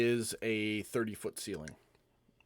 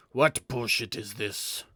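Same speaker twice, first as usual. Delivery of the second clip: scornful, louder taunting challenge; contemptuous brute; 4 dB louder than usual. Acted. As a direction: sneer down at the puny gnome. Brute claw dude taunts gnome.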